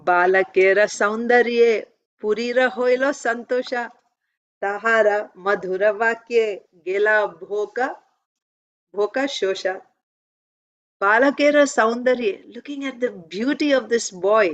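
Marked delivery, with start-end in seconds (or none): 0.1-9.7 quick rhythmic recitation of a Bengali verse; দ্রুত ছন্দে শ্লোক পাঠ. Acted. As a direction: chant the scripture line briskly, like a class reading. Recites Bengali verse before explaining.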